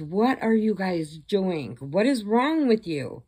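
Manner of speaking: slow, rising exasperation; acted indignant protest. Captive confronts her captors.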